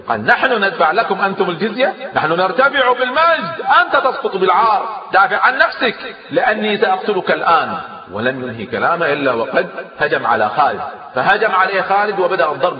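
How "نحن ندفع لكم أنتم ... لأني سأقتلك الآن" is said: high, loud furious shout rising to a yell; angry outburst. A narrator's reading. Roman commander refuses the tribute and threatens Khalid, a furious high shout. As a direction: explode at him in rage. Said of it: "فغضب أدادير".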